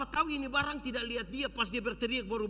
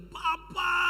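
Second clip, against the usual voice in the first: put-on child crying out for father, higher and louder; shout; 9 semitones higher, 4 dB louder than usual. Child calling to his father, relieved cry. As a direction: call out in relief. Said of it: "dia berteriak".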